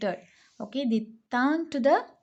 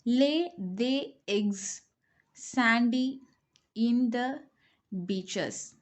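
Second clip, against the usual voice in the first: jumbled words read; much slower than usual. Shown as a demonstration. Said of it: "come to the next one".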